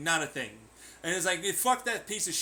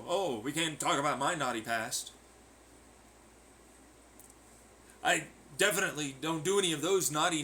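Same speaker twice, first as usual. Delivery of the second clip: mock prude; 3 semitones lower than usual. Voicing a prudish hypocrite.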